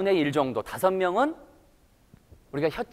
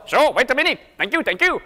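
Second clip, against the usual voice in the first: light Indian-accented English, higher; 6 semitones higher, 3 dB louder, much slower than usual. Shown as a demonstration. Teacher replying in Indian-style English, Indian accent. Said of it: "이게 인도 스타일의 영어고".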